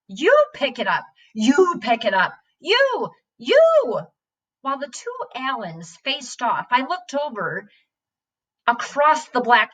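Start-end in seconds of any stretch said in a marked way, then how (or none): 0.1-4.0 schoolboy squabble rising to a squeak; childish retort. Acted. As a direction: throw it back at him like a stubborn kid. Boys quarrel over clover.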